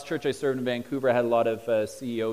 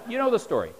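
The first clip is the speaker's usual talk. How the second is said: laughing, higher; 11 semitones higher, 5 dB louder, faster than usual. Real, not acted. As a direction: chuckle through the words. Laughing at own joke.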